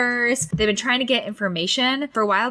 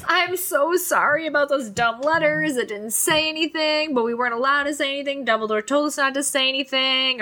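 high, fast mock-Hermione gushing apology; higher, hurried imitation of a flustered girl; Hermione apologizing; 6 semitones higher than usual. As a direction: squeak out a frantic sorry as Hermione. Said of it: "She's like".

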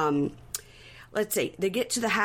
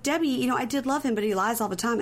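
mild mock-tearful complaint, raised pitch; crying; 5 semitones higher than usual. Girlfriend crying to Debbie about his lies, mock tearful. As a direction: imitate tearful confiding without real sobs. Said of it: "she's crying to Debbie".

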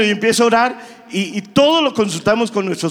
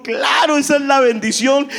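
joyful exclaim; 4 semitones higher than usual. Retold or imitated. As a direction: burst out that it's a blessing. Pastor's wife answering with joy.

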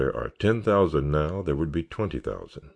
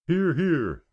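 much higher crowd call; laughing call; 12 semitones higher than usual. A narrator's reading. The scouts answering Roy's cue, high playful call. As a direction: answer back in chorus. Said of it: "they called laughingly".

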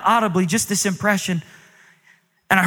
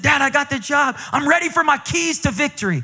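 higher, eager pleading son; eager plea; 9 semitones higher than usual. Retold or imitated. Son asking his dad for the church keys, high and eager. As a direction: beg like a kid for the keys.

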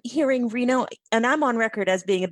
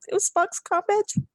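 fighting back tears over Spock's badge; tearing up; 10 semitones higher than usual. Real, not acted. Fan tearing up on a podcast, speaking through real emotion. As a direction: voice pitched up and choked with tears. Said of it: "I'm getting all crying".

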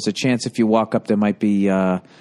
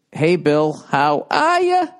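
mock cheery greeting; 3 semitones higher, slower than usual. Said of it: "He says".

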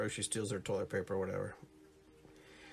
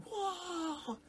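mock gasp; 5 dB quieter than usual. Gangsters watching money burn.

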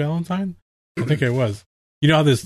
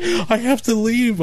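slow distress; 8 semitones higher, slower than usual. Retold or imitated. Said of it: "So I'm like".

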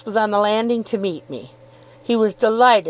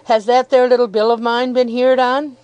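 fierce milkman; 4 semitones higher, 4 dB louder than usual. Acted. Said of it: "was the reply".

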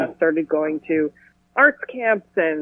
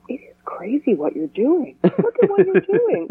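rising nagging inner voice; high mocking voice of doubt; 9 semitones higher than usual. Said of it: "a little voice in my head will go".

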